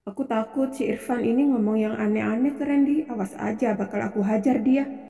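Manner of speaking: very soft, wary muttering; private threat. Acted. Wife fears Irfan will tell Randy, muttered threat. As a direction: threaten him under your breath.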